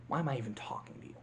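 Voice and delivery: quick unvoiced scoff; villain scoffing to himself; fast mocking whisper. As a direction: hiss it under your breath. Hopper muttering aside.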